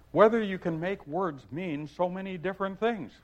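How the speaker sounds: put-on mild girlish pitch; Alice. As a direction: ask it politely as a little girl. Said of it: "said Alice".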